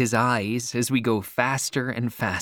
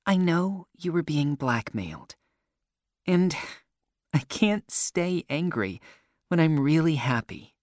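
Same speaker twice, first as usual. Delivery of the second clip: put-on higher-pitched girl, apologetic then happy; higher girl's voice; forgiving girl; 5 semitones higher than usual. A narrator's reading. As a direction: voice the girl higher, making up with a friend. Girl character apologising to narrator.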